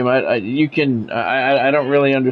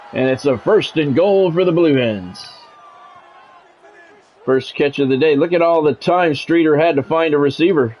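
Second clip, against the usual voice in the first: measured broadcast call of the down and the drive; sports play-by-play. Acted. Streamer calling his video game to chat, play-by-play announcer voice.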